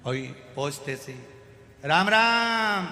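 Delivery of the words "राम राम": slow, drawn-out bellow, much higher and louder; a booming, stretched ram ram; deaf man's shout. Retold or imitated. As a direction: greet the patient like you can't hear yourself. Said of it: "वो चिल्ला के बोलता है".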